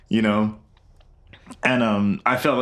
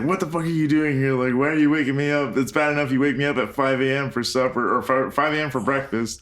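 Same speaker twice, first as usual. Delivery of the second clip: fast irritated rant, slightly raised pitch; mock yelling; 3 semitones higher, faster than usual. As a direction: grumble rapidly as a rudely woken patient, not really shouting. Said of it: "Yeah, he yells at her".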